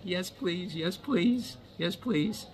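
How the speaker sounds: high, gushing eager yeses; squealing with delight; excited yes please. Retold or imitated. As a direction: beg like a thrilled kid. Eager reply to trying on watch.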